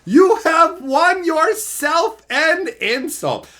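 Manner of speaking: loud, slow, drawn-out mock insult; hammed-up fake rage, loud and slow; mock roast. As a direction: roast him like a cartoon villain. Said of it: "Insult complete".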